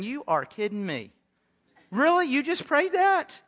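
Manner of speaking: incredulous. Acted. Pastor voicing God's stunned reply to Jonah, incredulous. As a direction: act stunned at what you just heard.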